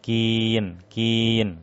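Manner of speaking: "kin" light and thin; a crisp light "kin". Shown as a demonstration. ("kin" tipis)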